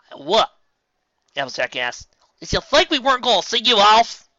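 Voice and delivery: can't believe it; incredulous. Acted. Applejack incredulous.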